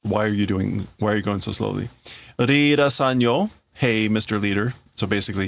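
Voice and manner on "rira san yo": higher, louder sneer on the title; mock him with fake respect. Tetsuo mocking Kaneda as the leader, sarcastic sneer. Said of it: "he's mocking him".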